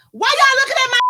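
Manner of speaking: hammed-up street dude; mimicking the guy. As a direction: voice the guy bragging. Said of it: "And he was like".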